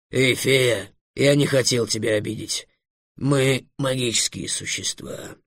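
soft, slowing dragon voice; apologetic dragon. Acted. Dragon apologising to the fairy, gently insistent. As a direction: placate gently, drawing out the end.

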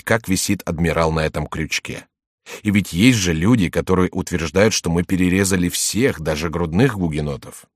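ironic tone. Acted. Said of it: "продолжать разговор ироничным тоном".

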